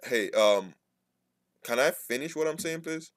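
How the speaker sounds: calm polite ask. Shown as a demonstration. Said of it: "then you stop and be like".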